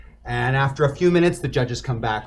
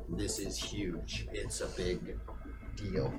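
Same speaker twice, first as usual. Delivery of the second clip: low dramatic hush; 8 semitones lower, 16 dB quieter, slower than usual. A narrator's reading. Announcer hype dropped low.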